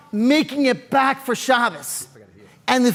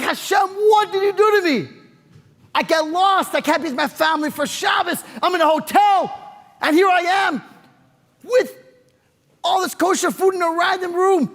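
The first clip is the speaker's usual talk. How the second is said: amazed cry to God; 5 semitones higher than usual. Retold or imitated. Stranded man finds kosher food, calls out in amazed joy.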